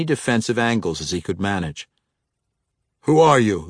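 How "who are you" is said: a sharp, louder demand from the Simfrey champion. A narrator's reading. A frustrated swordsman demands his rival's name, loudly. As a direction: hurl the question at him. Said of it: "the Simfrey champion demanded".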